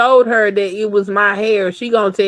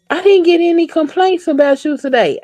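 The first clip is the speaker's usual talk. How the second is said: higher, pleased boss voice; imitating supervisor; 10 semitones higher than usual. Supervisor calling about no complaints, higher pleased mock voice. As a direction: play the relieved supervisor. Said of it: "she's like".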